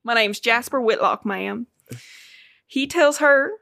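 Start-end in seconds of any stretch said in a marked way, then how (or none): 0.0-1.7 light attempt at a character's accent; tentative put-on accent, polite introduction; Jasper Whitlock. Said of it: "wanna do this in an accent".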